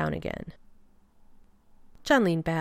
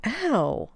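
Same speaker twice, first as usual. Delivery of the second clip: pained yelp; 6 semitones higher than usual. A narrator's reading. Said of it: "he winced and said".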